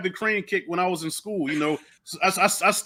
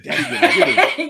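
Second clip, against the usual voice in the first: much higher and louder, fast, laughing; gleeful kid; 12 semitones higher, 7 dB louder, faster than usual. Retold or imitated. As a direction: gloat like a kid whose dad will fix it. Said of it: "I said, "Daddy".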